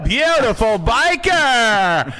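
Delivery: high, loud, slow, stretched-out gushing; Richard Simmons. Retold or imitated. Fitness celebrity greeting a biker, exaggerated high gushing. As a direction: gush in a hammed-up, high-pitched squeal. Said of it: "he was like this".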